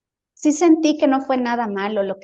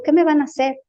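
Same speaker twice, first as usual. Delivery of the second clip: raised, louder worried question; retold fright; 4 semitones higher, 5 dB louder, faster than usual. Dreamer to unseen beings, mildly alarmed. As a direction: act out being startled by what approaches. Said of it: "me asusto y me contraigo".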